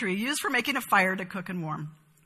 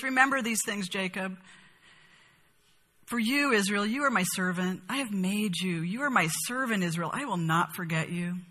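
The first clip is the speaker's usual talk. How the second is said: softer, gentle voice of God to Israel; God reassuring his servant Israel, gently and softly; different, tender tone; 3 dB quieter than usual. Retold or imitated. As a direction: speak to Israel like a caring father. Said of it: "in a different tone".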